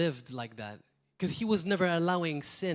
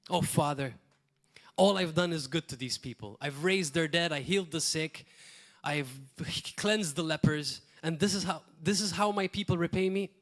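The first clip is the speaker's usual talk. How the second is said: mock-hurt whining to the Father, mildly acted; a lightly voiced Jesus who feels wronged; self-pitying complaint. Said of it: "how Jesus would have reacted".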